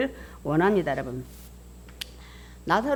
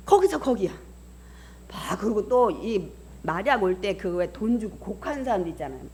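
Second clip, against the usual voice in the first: ordinary talk, nothing marked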